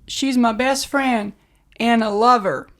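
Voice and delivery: slow, stretched Southern movie line; Southern accent. Acted. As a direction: try a drawn-out Southern accent. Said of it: "doing Southern accents".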